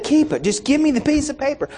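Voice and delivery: pushing him to just hand over the paper; exasperated insisting. Retold or imitated. Insisting to the road tax official.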